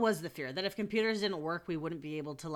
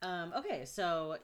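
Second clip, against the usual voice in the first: camp counselor voice. Real, not acted. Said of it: "I don't know why I'm talking like a camp counselor".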